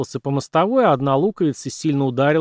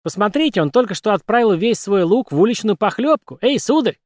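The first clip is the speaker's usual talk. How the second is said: high squeaky puppet voice; 7 semitones higher than usual. Acted. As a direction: pipe it up like a puppet. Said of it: "пропищала кукла".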